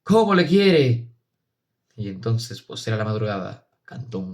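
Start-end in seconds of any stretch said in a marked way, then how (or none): 0.0-1.1 higher, slow, moved wonder; a crowd's tearful exclamation, drawn out; tearful murmur. A narrator's reading. Villagers weeping as the priest weeps, moved. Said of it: "lloró, diciéndose".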